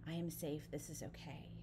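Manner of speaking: soft, low self-reassurance; calm yourself quietly, trailing toward a whisper; self-soothing. Acted. Client talking themself down behind the wheel, soft and reassuring.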